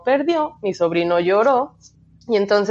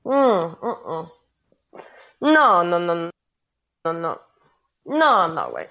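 crying; 3 semitones lower, much slower than usual. Real, not acted. Remembering humiliation, starts crying.

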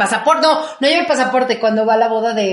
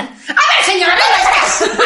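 mock calling out; 10 semitones higher, slower than usual. Joining in, calling neighbor.

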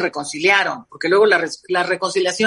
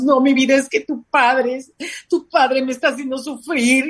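imitating complaining mom; 4 semitones higher than usual.

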